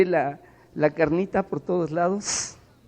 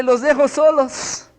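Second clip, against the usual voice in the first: higher, slow woman's voice stepping away; sister's voice; 8 semitones higher, 5 dB louder, slower than usual. Retold or imitated. Sister telling the pastors she leaves them alone, higher and slow. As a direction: pitch it up and say it slowly, backing off.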